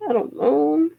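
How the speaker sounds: high, drawn-out uncertainty; retold helpless bafflement; lost and unsure. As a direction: puzzle over it in a high voice. Reading an unfamiliar menu, lost.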